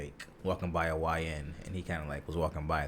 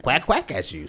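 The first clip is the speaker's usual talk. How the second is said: duck quack; 6 semitones higher, 5 dB louder than usual. Retold or imitated. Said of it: "some ducks might".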